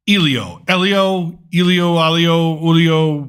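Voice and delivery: Elio said several ways, stumbling; name fumbled. Shown as a demonstration.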